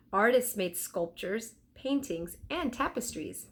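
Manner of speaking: lightly voiced boy reading facts, a bit brighter; reading aloud from a book. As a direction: read the book out like an eager kid. Jack reads the book aloud.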